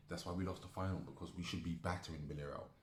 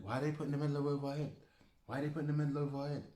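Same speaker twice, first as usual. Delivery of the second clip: higher, louder and fast, yelling the question; outraged shout; 8 semitones higher, 4 dB louder, faster than usual. Real, not acted. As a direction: demand an answer, furious and fast. Angry rant about runners-up medals.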